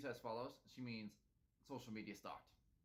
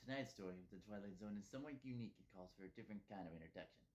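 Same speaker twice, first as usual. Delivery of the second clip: Rod Serling; 4 dB quieter, faster than usual. Retold or imitated. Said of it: "he does this Rod Serling impression".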